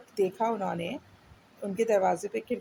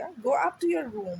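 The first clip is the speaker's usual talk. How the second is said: stern father order; 5 semitones higher, much slower than usual. Acted. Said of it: "snapped his father".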